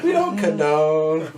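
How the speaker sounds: mock disclaimer. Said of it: "That's why I was like".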